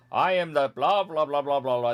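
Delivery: puffed-up hero voice, a touch high and loud; mock a pompous hero line with gibberish; hammed-up hero boast. Skipping the game dialogue, mock hero boast. Mock voicing of the hero's speech.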